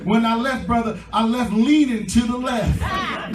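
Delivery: rousing sermon delivery with stretched key words; preaching. Real, not acted. Preacher promising the congregation a new start, preaching with drive.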